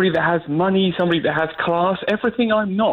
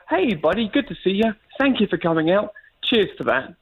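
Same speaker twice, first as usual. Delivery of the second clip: British demo line. Shown as a demonstration. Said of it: "Okay, so just say".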